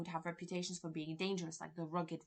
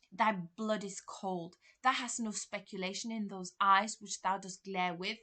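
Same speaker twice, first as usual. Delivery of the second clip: mild mock shout. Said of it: "he's probably shouting".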